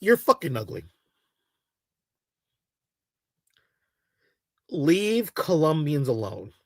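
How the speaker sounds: mock polite. Real, not acted. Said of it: "say this to you very politely".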